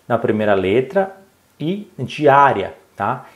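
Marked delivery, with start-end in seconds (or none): 2.0-2.7 "diária" slowed, leaning on the Á; stress on Á. Shown as a demonstration. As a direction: stretch the Á in "diária". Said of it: "faltam acentos nas sílabas". ("diária" com Á tônico alongado)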